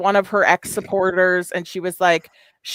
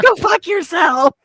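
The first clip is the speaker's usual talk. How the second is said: high, slow mock snap of a retort; overplayed, high-pitched comeback; mock furious retort; 11 semitones higher, 3 dB louder, slower than usual. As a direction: fling it back as a hammed-up high insult. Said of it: "she was like".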